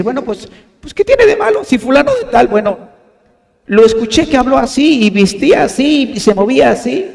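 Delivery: high, loud, indignant member's voice; defensive church member. Retold or imitated. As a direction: mimic an offended member justifying himself. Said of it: "quieres venir a traerlo a la iglesia y decir".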